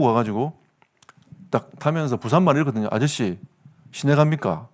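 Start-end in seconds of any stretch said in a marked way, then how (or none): 2.9-4.7 Busan dialect taxi question, lightly voiced. Shown as a demonstration. Preacher demos Busan speech to the congregation, lightly voiced Busan dialect. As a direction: ask the driver the Busan way. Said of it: "이게 부산 말이에요".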